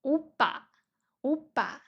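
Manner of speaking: oppa with a falling tune; Korean oppa. Shown as a demonstration. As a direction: model oppa for the class.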